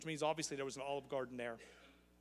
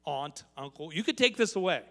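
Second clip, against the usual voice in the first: put-on begging child; 6 dB louder than usual. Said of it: "coming to you saying".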